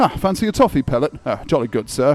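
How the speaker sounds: English accent in a low register. Demonstrating accents from different countries, now england: english accent, lower register. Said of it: "if you're from England, then you have to uh, go into a bit of a lower register".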